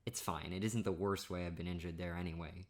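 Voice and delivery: normal talking voice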